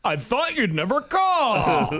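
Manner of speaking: high, drawn-out pretend relief; mock longing. Answering a pretend phone call, hammed-up longing. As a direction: play the hammed-up waiting lover.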